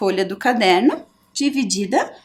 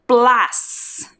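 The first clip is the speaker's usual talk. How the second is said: "plas" drawn out on its own; stressed syllable alone. Shown as a demonstration. Teacher showing the strongest syllable, "plas" held firmly. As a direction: isolate "plas" as one long, firm beat. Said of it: "a sílaba mais forte".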